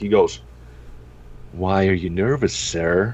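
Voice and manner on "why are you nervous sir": put-on creepy leering voice, much slower. Retelling getting pulled over, the speaker quotes the officer, mock-creepy. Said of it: "that's way too rapey sounding".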